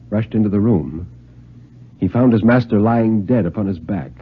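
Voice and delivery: grave, measured storyteller's voice; story narration. A narrator's reading. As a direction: read it like a tale that's heading for disaster.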